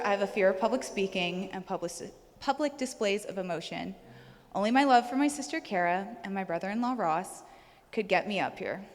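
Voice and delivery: a slight shaky, choked-up tremble; nervous, choked-up voice holding steady. Real, not acted. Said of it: "my shaky and choked up voice".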